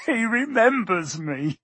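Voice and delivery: high, slow, thrilled; excited cry. Acted. Diggle thrilled Harry remembers him, excited cry. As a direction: cry it out with joy. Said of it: "cried Daedalus Diggle".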